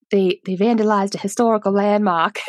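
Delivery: mild Boston accent imitation. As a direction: quote the sheriff in a Boston accent. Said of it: "Dempsey that's like".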